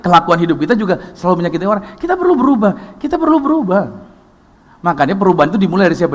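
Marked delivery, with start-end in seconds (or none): 2.0-3.8 much higher pleading call to change; high preaching appeal. Acted. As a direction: lift it high and urge them. (seruan tinggi dalam khotbah)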